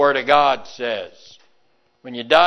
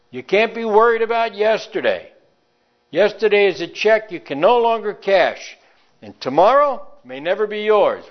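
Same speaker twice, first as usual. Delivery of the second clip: fervent preaching; 7 semitones higher than usual. Acted. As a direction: urge them on, voice raised. Preaching continues, raised voice.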